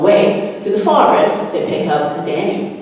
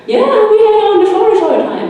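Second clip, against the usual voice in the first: much higher, fast, louder through a laugh; laughing reply; 6 dB louder, faster than usual. Acted. Daniel laughing back at the forest girl. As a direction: toss it off with a giggle.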